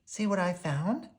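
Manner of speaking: exclaiming. A narrator's reading. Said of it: "exclaimed Pokey".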